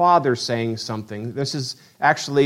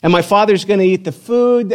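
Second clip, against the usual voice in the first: higher-pitched, keyed-up anticipation; excited inner monologue; eager excitement; 6 semitones higher, 3 dB louder than usual. Acted. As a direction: play a son primed for his big moment. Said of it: "I'm excited".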